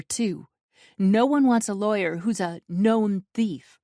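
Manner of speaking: high, loud, outraged tirade; furious. Acted. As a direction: pour out the outrage. Heroine furious at Alexei.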